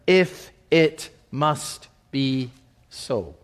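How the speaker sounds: slow, low, resigned sigh of a father; a weary father reluctantly letting go; reluctant resignation. Acted. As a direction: give in slowly, as if it costs you everything. Jacob reluctantly gives in.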